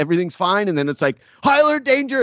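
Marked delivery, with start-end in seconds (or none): 1.4-2.2 high, loud warning cry; mock danger alarm. Host imitating danger striking out of nowhere, mock alarm. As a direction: sound the alarm in a sudden high yell.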